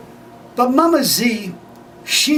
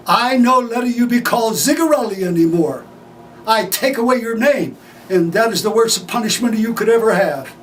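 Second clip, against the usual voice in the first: raised, tearful declaration from a proud father; the dad tells his sons their name is the punishment, in an emotional raised voice; emotional father's outburst; 2 semitones higher than usual. Retold or imitated.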